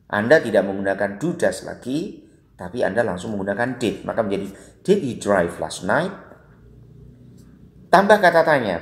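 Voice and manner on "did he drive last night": slow question with "night" lifting at the end; yes-no tune rising on "night"; rising question intonation. Shown as a demonstration. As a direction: let the pitch climb on "last night". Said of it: "itu pasti intonasinya naik".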